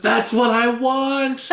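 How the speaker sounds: high, slow, thrilled cry; excited squeal. Real, not acted. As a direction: gasp out your delight. Gasps at the game idea.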